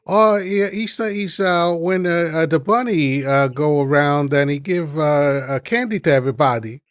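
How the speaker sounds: put-on high, excited Asian accent; broken English in an Asian accent. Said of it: "I could do the Asian accent".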